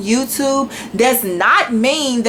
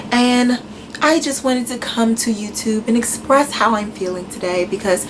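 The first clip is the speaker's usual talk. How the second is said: mock polite upset; 3 semitones lower than usual. Shown as a demonstration. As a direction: play the prim, wounded vlogger. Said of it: "that's not how I act in person when I'm upset".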